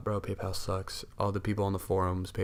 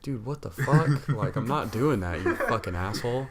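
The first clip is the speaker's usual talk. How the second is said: heated; 3 semitones higher, 4 dB louder than usual. Retold or imitated. Caller tells off the gift card scammer, heated. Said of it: "but I'm fucking heated".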